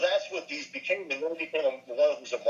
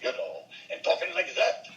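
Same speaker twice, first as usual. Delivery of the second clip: put-on comic Scottish accent, words stretched out; exaggerated Scottish film-comedian voice; James Finlayson; 3 semitones higher than usual. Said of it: "the Scottish Ball, James Finlayson".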